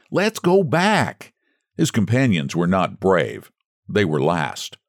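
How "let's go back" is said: stifled plea. Acted. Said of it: "stifled and bedraggled".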